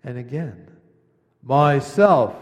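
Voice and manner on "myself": "myself" ringing out much louder and joyful; loud clear happy. A narrator's reading. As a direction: proclaim "myself" gladly and loud. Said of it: "loud and clear and happy".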